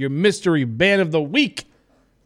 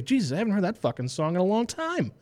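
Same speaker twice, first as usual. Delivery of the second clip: giddy listener quote, pitched way up; thrilled listener; 6 semitones higher, 3 dB quieter than usual. Retold or imitated. Listener rediscovering an old song, gushing way up high. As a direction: gush like a fan hearing an old favourite. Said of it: "shows you listen to and say".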